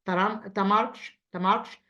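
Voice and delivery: clear, measured word-list reading; repeat-after-me drill. Shown as a demonstration. Teacher reads the word list for pupils to repeat, measured drill voice. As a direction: model each word for the class to echo. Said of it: "repeat after me".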